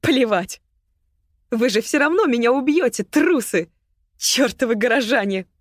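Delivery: loud, high, furious outburst; furious yell. Acted. Агата yells at the cowardly townsfolk, furious and loud. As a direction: spit the insults at all of them.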